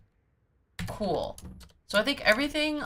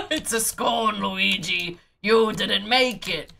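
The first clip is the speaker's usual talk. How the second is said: louder, amused mock scolding; teasing; 2 semitones higher, 5 dB louder, slower than usual. Real, not acted. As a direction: tease him through leftover laughter. Teasing the character after laughing.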